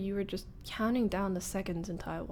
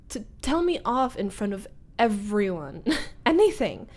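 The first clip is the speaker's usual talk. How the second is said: exasperated burst; 6 dB louder than usual. Acted. Bursts out in frustration.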